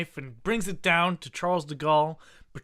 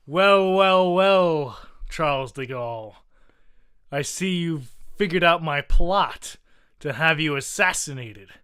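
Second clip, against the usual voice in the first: louder, hammy villain with a gun; gloating villain; 3 dB louder than usual. Acted. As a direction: savour the evil reveal.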